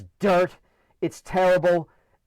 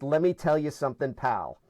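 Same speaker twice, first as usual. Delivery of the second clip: lightly voiced gruff dad, dropping low on pal; a hint of the father's stock opener; dad's catchphrase; 5 semitones lower, 4 dB quieter than usual. Brother quoting dad's favorite opener, lightly imitated. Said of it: "He would start a sentence with".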